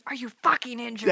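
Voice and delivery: lightly put-on Shockwave voice; Shockwave parody quote. Podcaster returns to a favourite clip, lightly imitating Shockwave. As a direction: quote the villain with relish. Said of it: "I quote that to myself so much".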